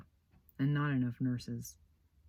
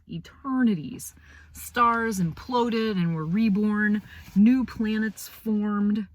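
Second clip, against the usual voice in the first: hushed awe; 6 semitones higher, 7 dB louder, slower than usual. A narrator's reading. Grand cosmic exaggeration.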